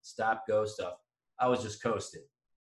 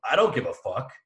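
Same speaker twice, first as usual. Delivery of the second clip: retold shout. Retorting to lawyer-parents claim.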